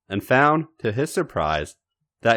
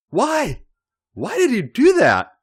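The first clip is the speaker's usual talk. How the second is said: breathless; 4 dB louder than usual. Acted. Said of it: "he asked breathlessly".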